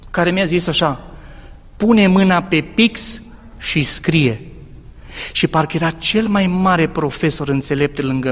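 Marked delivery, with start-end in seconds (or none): 1.8-4.4 slow, calm voice of a heavenly teacher; a voice from God. Retold or imitated. God's voice telling the student to write, slow and calm. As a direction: speak it like a gentle inner voice giving an order. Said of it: "aud o voce".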